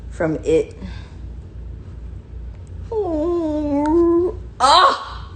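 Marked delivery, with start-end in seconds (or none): 2.9-5.3 pained yelp. Real, not acted. Puppy hits her eye.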